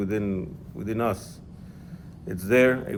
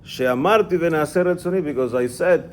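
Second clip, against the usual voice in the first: emphatic; 6 semitones higher, 5 dB louder than usual. Acted. Emphatic quote of God's words.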